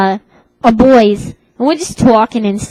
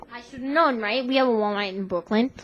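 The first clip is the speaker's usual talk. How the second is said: much softer, under the breath; muttered aside; 11 dB quieter than usual. Retold or imitated. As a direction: mumble it to yourself.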